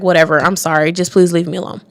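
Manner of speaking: dismissive apology. Retold or imitated. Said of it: "you're just feeling sorry for yourself and you're like".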